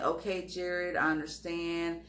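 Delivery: calm soothing. Retold or imitated. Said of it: "I'm trying to be very, like, calm, cool".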